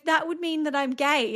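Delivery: son's voice. Retold or imitated. Son voiced in retold story.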